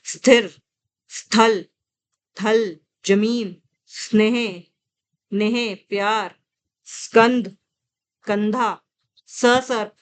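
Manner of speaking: one word at a time, with pauses; slow word-list reading. Shown as a demonstration. Teacher reading vocabulary for students to revise, slow and separated. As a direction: read out each vocabulary word separately, unhurried. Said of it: "मैं तो slow slow पढ़ रही हूँ".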